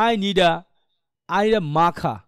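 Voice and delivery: মাখা as "maa-khaa", ending on an open vowel; phrase by phrase, no r at the end of মাখা; silent final r. Shown as a demonstration. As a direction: drop the last r in মাখা. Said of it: "লাস্টে আর উচ্চারণ কি হয় না".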